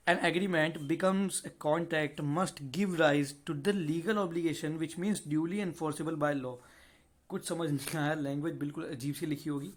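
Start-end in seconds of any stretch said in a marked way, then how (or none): 0.1-6.5 slow, deliberate reading of the law text; slow statute reading. Acted. Teacher slowly reading the definition to students, measured and deliberate. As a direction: read the section out word by word for students. Reads the textbook line.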